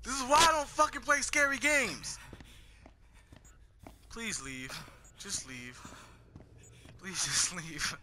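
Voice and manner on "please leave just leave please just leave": whispering while hiding. Real, not acted. Hiding from monster.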